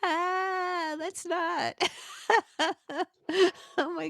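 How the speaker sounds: real laughing no. Real, not acted. Laughs at the creepy line.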